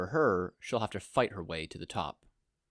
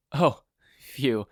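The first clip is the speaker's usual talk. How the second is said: relieved sigh; 3 semitones higher, 6 dB louder than usual. A narrator's reading. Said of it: "Izuku sighed in relief".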